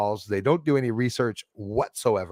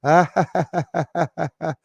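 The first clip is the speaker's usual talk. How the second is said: real laugh; 4 semitones higher, 4 dB louder than usual. Real, not acted. Laughing at troll's comment.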